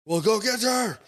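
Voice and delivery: high, loud mock-Italian chef order; horrible Italian accent. Italian chef urging him to fetch his sister, horrible Italian accent. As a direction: shout it in a badly faked Italian accent. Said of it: "a horrible accent".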